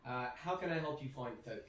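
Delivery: lightly voiced innkeeper, slowing on her name; welcoming dwarven barkeep. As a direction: introduce yourself as the hostess. Barkeep introduces herself.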